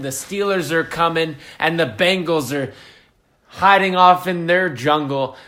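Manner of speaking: rally the troops to hold the North; mock epic battle speech; hyped-up speech. Hyped speech to defend the wall.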